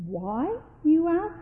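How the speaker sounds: snappy, pitch leaping up on the question; a touch of testiness, ending high. A narrator's reading. Old Victor answers Johann's question rather snappily. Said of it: "said old Victor rather snappily".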